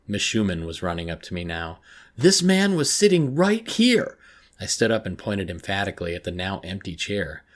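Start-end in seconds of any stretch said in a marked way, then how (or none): 2.2-4.2 high, loud, drawn-out frantic cry; screamed insistence. A narrator's reading. Girl telling her counsellor where the man sat, frantic scream. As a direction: shout it slowly, desperate to be believed.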